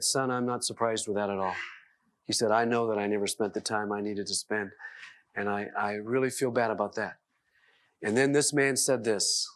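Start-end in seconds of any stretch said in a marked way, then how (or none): 0.0-1.5 subdued, slightly lower admission; understated remorse; regretful father. Retold or imitated. Acted father's regretful admission to son. 2.5-7.1 low, subdued confession; regretful father. Retold or imitated. Acted father confessing his regret.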